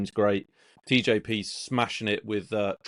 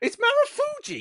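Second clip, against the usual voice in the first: very high-pitched voice. Retelling what a friend said on the phone, imitating a friend's voice. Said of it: "that was his voice of".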